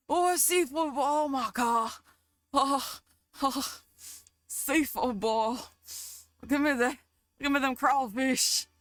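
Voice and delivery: greedy, excited food craving; hungry excitement, half laughing. Real, not acted. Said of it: "I just got excited thinking about a crawfish boil".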